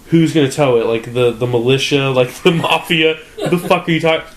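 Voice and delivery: acted-out exasperated disbelief; mock incredulous. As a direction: retell it as baffled, scoffing questions. Acts out disbelief at tow threat.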